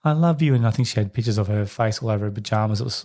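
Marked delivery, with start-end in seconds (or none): 0.0-0.5 whiny clingy mum. Retold or imitated. Clingy mother begs her daughter not to push away, higher pleading. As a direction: plead like a childish smothering mum. Six-year-old mum's like.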